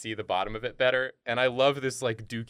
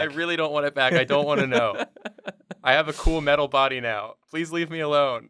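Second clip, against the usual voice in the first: whiny character voice; 4 semitones higher, 5 dB louder than usual. Pretend.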